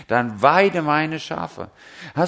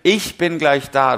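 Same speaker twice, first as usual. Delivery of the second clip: showy call; 5 dB louder than usual. Retold or imitated. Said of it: "damit das auch wirklich noch so".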